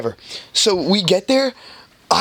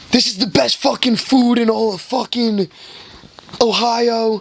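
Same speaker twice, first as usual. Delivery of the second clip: put-on drunk raving; 6 semitones higher than usual. Drunk friend raving about food.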